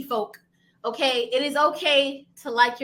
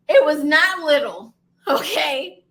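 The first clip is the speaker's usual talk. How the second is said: laughing insistence; 6 dB louder, slower than usual. Real, not acted. Insisting spider was big.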